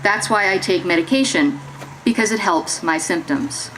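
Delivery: measured monologue with pauses between phrases; verbatim theater reading. Acted. Performer voices participants' lived experience to an audience, measured dramatic reading. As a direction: read the testimony aloud, phrase by phrase.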